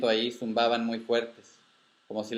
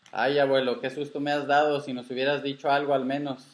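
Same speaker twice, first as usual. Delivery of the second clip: relieved scolding; 4 semitones higher, 3 dB louder than usual. Acted. Frightened grandchild scolds found grandfather.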